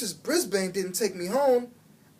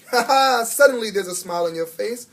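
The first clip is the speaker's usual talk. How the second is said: beaming with pride; 3 semitones higher, 7 dB louder than usual. A narrator's reading. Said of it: "Aldo beamed with pride".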